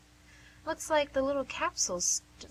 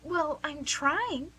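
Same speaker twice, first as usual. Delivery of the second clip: slow; 5 semitones higher, 3 dB louder, much slower than usual. Acted. Fumbling nurse, defensive.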